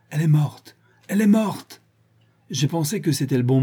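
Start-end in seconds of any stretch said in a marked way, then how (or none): 0.1-1.8 high mock cry from a treetop; imitated yell. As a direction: mimic his shouted announcement, rising on the repeat. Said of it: "Quand tu as gueulé du haut de ton arbre". (imitation d'un cri aigu)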